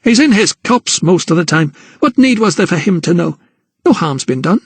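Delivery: sneering. Acted. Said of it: "A sneer crossed her mother's".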